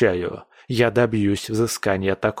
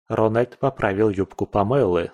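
plain reading voice

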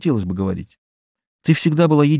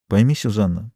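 crushed voice; 2 semitones lower than usual. Acted. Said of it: "совсем убитым голосом".

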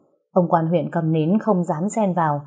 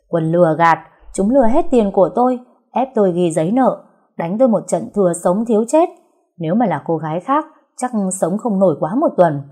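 loud, indignant complaint; indignant accusation; 3 dB louder than usual. Acted. Trúc listing the tavern's crimes, loud indignation. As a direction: rail against the swindlers.

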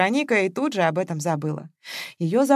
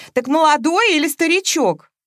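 puzzled squeak; 9 semitones higher, 7 dB louder than usual. A narrator's reading. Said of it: "пискнула невестка Оленька".

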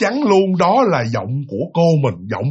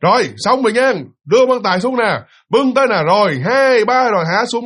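calling orders; 4 semitones higher than usual. Retold or imitated. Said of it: "ra hiệu lệnh".

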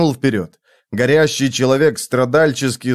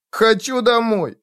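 put-on whining child; 9 semitones higher than usual. A narrator's reading. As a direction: whine that it hurts, in a child's voice. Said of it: "скулил Зигурд".

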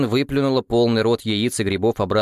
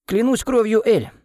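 exclaiming; 12 semitones higher than usual. A narrator's reading. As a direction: blurt it out with a full mouth. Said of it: "воскликнула Вин с набитым ртом".

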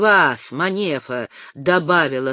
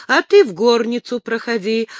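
polite invitation; 5 semitones higher, 6 dB louder than usual. A narrator's reading. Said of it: "учтиво пригласил он".

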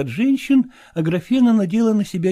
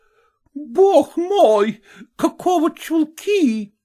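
very slow, drawn-out horrified exclaim; be scandalized by the stockings; mock-shocked cry; 13 semitones higher, much slower than usual. Landlady sees the girl's red wool stockings, appalled. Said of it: "вскрикнула".

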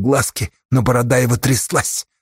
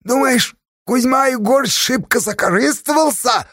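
much higher and loud, an indignant cry; shrill up in the head, shouting at him; тонким голосом, громко; loud thin voice; 11 semitones higher than usual. A narrator's reading. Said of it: "Совсем тонким голосом громко спросил".

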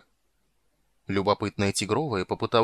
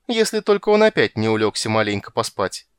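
a sly, snide jab, louder; 6 dB louder than usual. Acted. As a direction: needle him with a sneer. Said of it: "ехидно вставила Тигровая".

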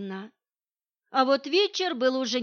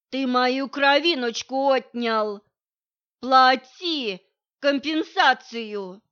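put-on slow, much louder drunken demand; loud demanding wail; 2 semitones higher, 8 dB louder, slower than usual. Drunk mother demands money from Vitalik, slow loud bellow.

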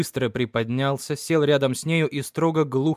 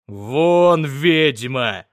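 loud barked command; angry father driving his wife out, loud shout; furious shout; 7 dB louder, much slower than usual. Acted. Father leaps up, throws wife out.

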